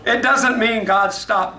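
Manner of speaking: slow, laughing through the words. Real, not acted. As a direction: still laughing while speaking. Laughing after accent joke.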